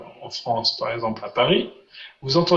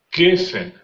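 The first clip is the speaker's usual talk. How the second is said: "Geffen" stressed on GEF; stress on penultimate syllable; 3 semitones higher than usual. Shown as a demonstration. Teacher demonstrating the exception, first-syllable stress on "Geffen". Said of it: "on met l'accent sur l'avant-dernière syllabe".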